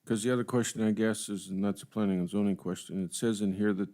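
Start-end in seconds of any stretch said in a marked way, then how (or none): none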